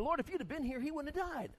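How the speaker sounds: high, pleading Martha voice; preacher acting out Martha's reproach; Martha's complaint.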